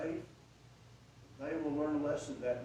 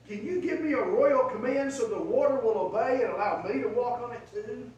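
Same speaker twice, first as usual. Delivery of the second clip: eager plea; 5 semitones higher, 7 dB louder than usual. Acted. Peter voiced pleading to Jesus.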